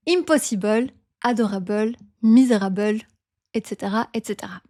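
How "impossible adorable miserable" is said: French-accented IMPOSSIBLE ending in "bul". Shown as a demonstration. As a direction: ADORABLE and MISERABLE with a heavy final "bul". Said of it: "are pronounced bul".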